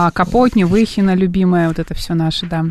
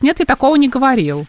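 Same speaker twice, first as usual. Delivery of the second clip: high mocking falsetto imitation; 5 semitones higher than usual. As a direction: squeak it up high, teasing. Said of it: "Что ты перешла на фальцет?".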